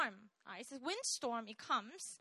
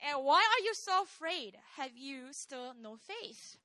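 mild rebuke; 4 dB louder than usual. Acted. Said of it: "Jesus responds".

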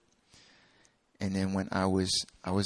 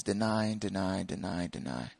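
fading repetition; 5 semitones lower than usual. Real, not acted. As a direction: let each repeat sink further. Repetition trailing away.

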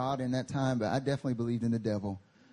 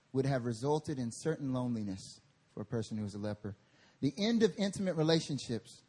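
reading a quote. Shown as a demonstration. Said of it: "I wanna read a quote".

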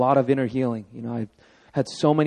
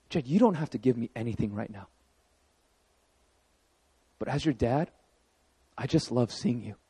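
soft, quiet, slowed loving words to a son; tender inner thought; 3 dB quieter than usual. Retold or imitated. Father watching his son play, quiet tender thoughts. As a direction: speak it gently, as if only to yourself.

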